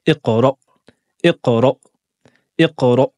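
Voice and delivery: iqra with the vocal cords shut on the glottal stop; closed hamza. Shown as a demonstration. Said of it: "mais on va fermer les cordes vocales".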